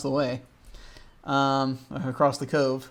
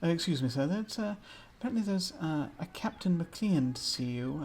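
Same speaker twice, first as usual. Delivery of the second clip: whisper speak; 2 semitones higher, 8 dB quieter than usual. Acted. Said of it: "sort of whisper speak".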